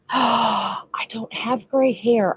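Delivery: playfully scandalized protest; mock offended. Real, not acted. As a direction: draw it out as if affronted. Mock offence at gray hair jab.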